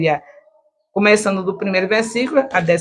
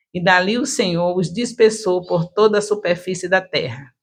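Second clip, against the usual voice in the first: rehearsed declamation. Shown as a demonstration. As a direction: proclaim the verse without stumbling. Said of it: "também com a voz bem, bem ensaiado, sem gaguejar".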